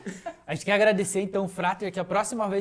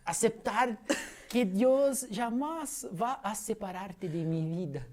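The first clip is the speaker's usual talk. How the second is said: declamação lenta em espanhol; interpretação em espanhol; slower than usual. Acted. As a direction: recite a letra devagar, interpretando em espanhol. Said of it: "já foi a interpretação e a mímica". (leitura interpretada de canção em espanhol)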